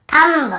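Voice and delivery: "थंब" with a sounded final B; B pronounced. Shown as a demonstration. Teacher mimics reading without the rule, "थंब" with B voiced. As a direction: end "थंब" as tham-buh. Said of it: "ऐसे पढ़ते हैं ना".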